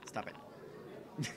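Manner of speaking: whispered. Real, not acted. Whispered aside while laughing.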